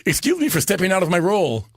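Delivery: a touch of Ed Wynn's goofy politeness; Ed Wynn line. Retold or imitated. Ed Wynn apologizing to Capone's mob, light Ed Wynn voice. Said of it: "goes to the microphone".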